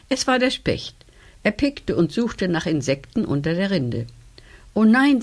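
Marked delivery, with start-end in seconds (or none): 4.7-5.2 startled, high and loud; frightened cry. Acted. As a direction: gasp in alarm. Ladybug sees the woodpecker.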